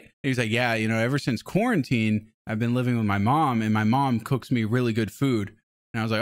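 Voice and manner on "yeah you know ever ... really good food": imitating an Indian accent, lower; light Indian accent voice. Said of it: "my racist Indian guy accent".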